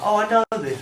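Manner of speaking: excited recognition. Retold or imitated. Audience reaction quoted.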